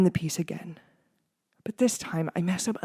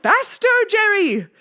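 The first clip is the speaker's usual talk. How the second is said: much higher, loud cheer; excited shouting; 5 dB louder than usual. A narrator's reading. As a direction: egg him on with mad glee. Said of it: "cried excitedly".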